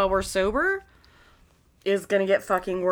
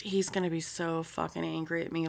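whisper; 4 semitones lower, 9 dB quieter, faster than usual. Real, not acted. Worried aside, whispered.

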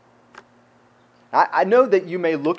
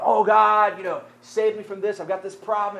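mock pleading prayer; 6 semitones higher than usual. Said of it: "people are praying, like".

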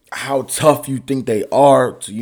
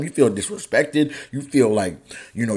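ordinary talk

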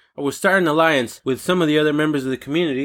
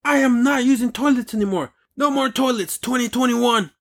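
lightly voiced fed-up big shot, climbing much higher; a hint of a boss cracking, building into a defiant rant; rebellious official; 5 semitones higher than usual. Imagined politician declaring he's done with toilets, climbing to higher defiance. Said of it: "He's like".

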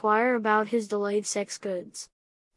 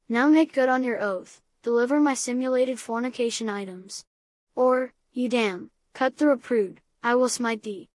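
mock biblical prophet. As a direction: thunder it like an old prophet. Threatening the shipping company.

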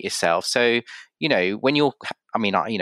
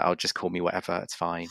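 imitating a soft, resigned give-up, softer; resigned shrug; 2 semitones lower, 7 dB quieter than usual. Telling people who can't say his name to just call him anything, quietly resigned. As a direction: let it go with a quiet, tired shrug. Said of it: "And I'm like".

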